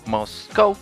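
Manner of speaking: ordinary talk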